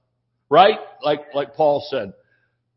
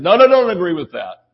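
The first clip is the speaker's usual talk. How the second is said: louder, hurried-back objection; urgent retraction; 2 semitones higher, 5 dB louder than usual. Retold or imitated. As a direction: cut in to take it back. Acted urgent retraction to Scarlett.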